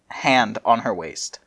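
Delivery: "hand" said slowly as one hand, no s; slow careful "hand on her waist"; corrected hand. Shown as a demonstration. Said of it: "Now it's hand, not hands".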